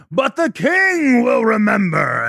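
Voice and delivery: commander shout. Acted. Commander insisting.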